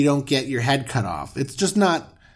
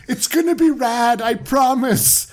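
bro promise; 8 semitones higher than usual. Pretend. Abram promising wife.

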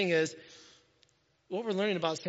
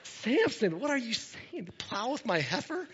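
higher-pitched incredulous question; mock disbelief; 4 semitones higher than usual. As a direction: question him as if you can't believe it. Mock disbelief at Samson's insult.

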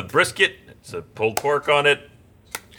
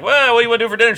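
high-pitched breezy question; light, raised retelling voice; retold phone chat; 9 semitones higher, faster than usual. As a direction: act out asking your wife, pitched up. Retelling phone call with wife.

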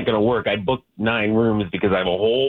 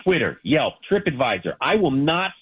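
entitled customer; 3 semitones higher than usual. Real, not acted. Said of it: "getting all angry like this".

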